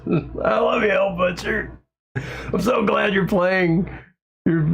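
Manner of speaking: high, giddy fan gushing through laughter; retold giddy outburst to an idol; childlike gush. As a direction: squeal it like a starstruck kid. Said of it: "five-year-old me took over".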